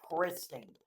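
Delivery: car salesman pitch. Pretend. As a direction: pitch it like a used car dealer. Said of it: "I'm gonna sound like a car salesman again".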